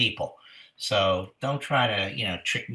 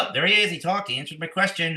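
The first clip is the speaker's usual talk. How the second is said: excited, higher-pitched boast; triumphant dog owner; 7 semitones higher, faster than usual. Acted. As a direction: insist the dog really talked. Acted dog owner claims victory again.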